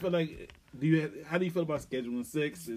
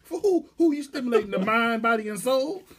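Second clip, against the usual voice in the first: incredulous rant; 6 semitones higher, 5 dB louder than usual. Real, not acted.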